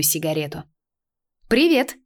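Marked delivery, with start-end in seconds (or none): 1.5-2.0 bright high smiling hello; smiling greeting. A narrator's reading. Heroine greets the thief with a fake smile. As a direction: say it with a smile, pitched up. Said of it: "улыбнулась я".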